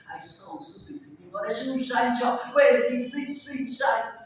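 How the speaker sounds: rushed "shoe shine" twister with a bright burst; tongue twister drill. Shown as a demonstration. Teacher demonstrating a tongue twister to learners, articulated. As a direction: play with the sh and s sounds. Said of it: "like tongue twisters".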